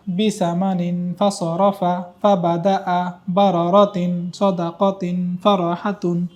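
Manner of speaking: slow, even syllables run together; one-breath recitation. Shown as a demonstration. Teacher demonstrating the last line in one breath, one-breath recitation. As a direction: carry the whole line through on one breath. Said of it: "আমি শেষ লাইনটা এক নিঃশ্বাসে আপনাকে বলে দেখাচ্ছি".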